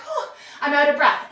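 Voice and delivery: laughing, playfully faked puffing; mock out of breath. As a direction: fake being winded with a laugh. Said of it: "and you can hear".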